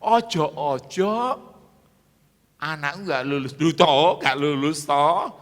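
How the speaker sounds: hammed-up worried parent, drawn-out start; acted anxious plea. Preacher voices a parent dreading a child failing, mock anxious. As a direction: mimic a parent fretting, punching the interjections. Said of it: "Karena kau menjadi ketakutan".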